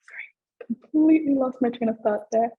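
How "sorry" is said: a breathless, embarrassed whispered sorry. Real, not acted. Student panelist flustered on a webinar, whispering an apology. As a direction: whisper it, caught off guard. Flustered after losing her train of thought.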